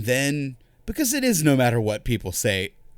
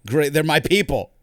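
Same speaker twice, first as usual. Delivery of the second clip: excited; 5 semitones higher, 5 dB louder than usual. Retold or imitated. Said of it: "I was like".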